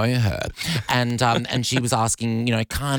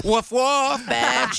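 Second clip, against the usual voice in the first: high, light cartoon puppy woofs; high playful puppy woof; playful dog woofs; 14 semitones higher, much slower than usual. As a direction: bark it like a kids' cartoon dog. Mock kids' show bark.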